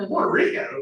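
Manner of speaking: teasing imitation of her surprised question; mocking her voice. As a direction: mimic her reaction to the answer. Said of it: "you see her voice".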